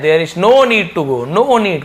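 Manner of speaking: "there is no need to go" drawn out, rising on "no"; slow, clear teacher demo; slow model reading. Shown as a demonstration. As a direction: read it slowly for the class. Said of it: "teacher models sentence slowly".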